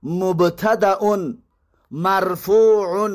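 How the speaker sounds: slow, measured reading of the Arabic parsing formula; recited grammar formula. Shown as a demonstration. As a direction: spell out each grammatical term slowly, like dictating to students. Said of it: "اعرابش چنین است". (خواندن آهسته و شمرده فرمول اعراب)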